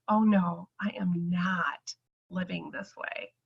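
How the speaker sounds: whispered inner vow. Retold or imitated. To herself about her medication, a whispered vow. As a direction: hiss it to herself, no way. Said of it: "And I was like".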